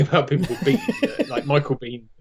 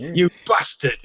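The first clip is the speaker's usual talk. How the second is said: Sean Bean; 3 semitones higher, slower than usual. Retold or imitated. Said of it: "that supercut of, of him in Sharp".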